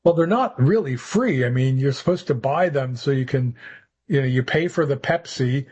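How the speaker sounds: lightly voiced theater manager; a hint of a scolding manager; boss impression. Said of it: "Ken Friedman is doing his impression".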